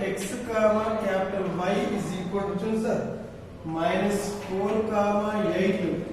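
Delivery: slow, drawn-out dictation; dictating. Acted. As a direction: spell it out slowly for notes.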